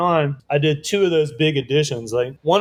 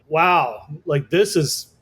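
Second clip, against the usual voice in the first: amazed; 5 semitones higher than usual. Retold or imitated. First sight of huge print job.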